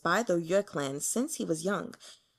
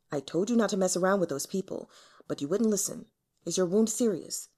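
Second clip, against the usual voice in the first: stern rebuke; faster than usual. Acted. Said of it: "his own stern rebuke".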